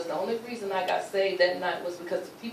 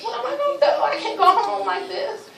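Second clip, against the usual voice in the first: retold panic; 14 semitones higher, 7 dB louder than usual. Panicking about being seen beaten.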